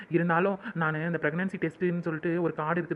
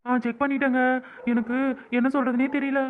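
louder, higher tearful words; crying; 4 semitones higher, 4 dB louder than usual. Acted. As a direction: speak through happy tears. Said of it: "ஏன் அழுகுற?". (கண்ணீருடன் பேசும் குரல்)

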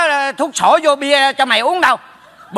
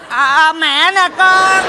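slow, drawn-out mock mother; pretend mother; 3 semitones higher, slower than usual. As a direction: slowly pass yourself off as his mother. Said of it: "Tao giả mẹ mày".

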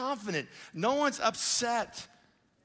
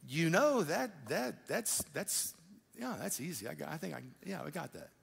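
soft, murmured "yeah, that's easy" as it clicks; quiet dawning realization; 2 semitones lower, 6 dB quieter than usual. Retold or imitated. Pastor voicing a listener quietly realizing faith, soft murmur. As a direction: let it sink in under your breath, much softer.

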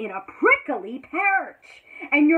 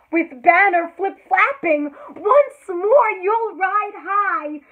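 triumphant; 6 semitones higher, 8 dB louder, slower than usual. Acted. Triumphant passage in reading.

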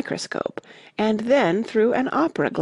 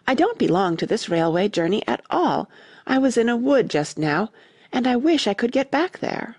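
mildly impatient protest, climbing in pitch; a touch of exasperation, higher toward the end; rather impatient; 5 semitones higher than usual. Acted. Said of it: "rather impatiently".

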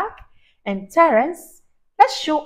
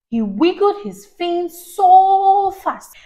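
excited read; 7 semitones higher, 6 dB louder, slower than usual. A narrator's reading. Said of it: "storytelling emphasis".

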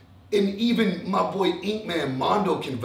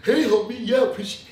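a hint of a fake, soft, friendly greeting; lightly mock his phony niceness, starting much softer; mild imitation of a two-faced soft-voiced host. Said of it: "like, a little soft voice".

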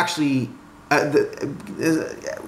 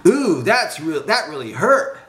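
higher-pitched sarcastic wail; mock-pained shout; 6 semitones higher than usual. A narrator's reading. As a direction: pretend lightly that it hurt. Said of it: "shouted Willard".

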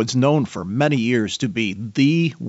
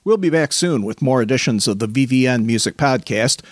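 podcast outro read. Real, not acted. Reads the podcast sign-off.

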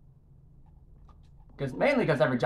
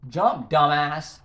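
frustrated yell; 5 dB louder, much slower than usual. Real, not acted. Yelling at game character.

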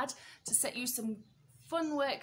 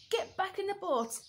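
urgent order; 6 semitones higher than usual. Acted. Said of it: "George told the bird".

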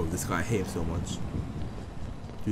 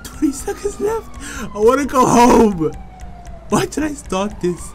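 panicking gamer; 3 semitones higher, 6 dB louder than usual. Real, not acted. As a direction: wail it in a gaming panic. Waiting for car under attack.

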